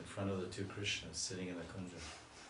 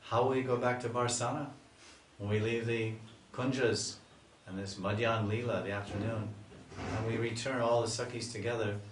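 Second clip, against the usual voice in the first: raised, fast, anxious gopi voices; worried gopis; 3 semitones higher, 4 dB louder than usual. Retold or imitated. Gopis worrying about facing Radharani's parents, raised and anxious. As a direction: fret together as worried girls. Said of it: "the gopis start talking".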